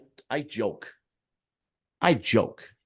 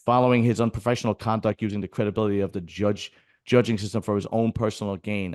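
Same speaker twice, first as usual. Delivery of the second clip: reading an official statement aloud; steady, formal reading voice. Shown as a demonstration. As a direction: reads the association's notice aloud. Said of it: "what else does it say".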